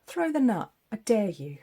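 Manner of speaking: playful squirrel dare, with a laugh; cheeky squirrel. Retold or imitated. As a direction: tease like a squirrel daring you to throw. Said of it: "The squirrel's reminding us".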